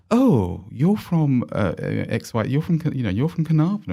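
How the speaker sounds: a snooty private-school Australian accent, put on; posh Australian accent. Private school student sneering at the country kids, mock posh Australian accent. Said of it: "in an Australian posh accent as you can get".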